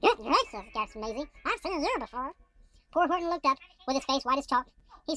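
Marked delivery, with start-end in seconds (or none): 0.0-2.3 lazy bird Maisie. Acted. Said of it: "that's a temp Maisie voice".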